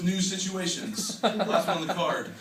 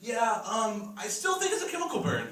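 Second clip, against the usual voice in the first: a bit higher, breezy know-it-all; lightly voiced smug website; 3 semitones higher than usual. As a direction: lift the voice for the website. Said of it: "So like".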